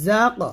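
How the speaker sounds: "জা" buzzed, closed by bouncing "ক"; whistling z. Shown as a demonstration. Teacher showing how, sibilant buzz on "জা". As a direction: ring the z of "জা", release "ক". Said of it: "এরকম".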